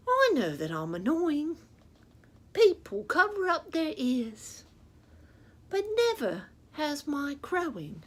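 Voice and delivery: a cocky little rooster reciting its rhyming complaint; lightly voiced barnyard rooster, loud at the start; rooster puppet voice. Rooster puppet telling the children its story, lightly voiced cocky bird.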